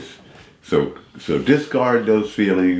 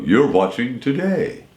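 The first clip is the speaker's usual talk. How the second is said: Today pitched up in announcer style; imitating the announcer; 4 semitones higher than usual. Homeless man mimicking the TV intro announcer. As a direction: copy the host's intro line. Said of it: "I would go".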